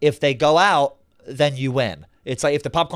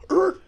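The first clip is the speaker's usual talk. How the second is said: short high "er" sound effect; quick high-pitched yank noise; imitated jerk noise. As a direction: imitate a rope snapping taut. Imitates rope pulling taut.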